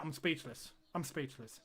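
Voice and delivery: fading to almost nothing; real disbelief; stunned. Real, not acted. Stunned by the defending.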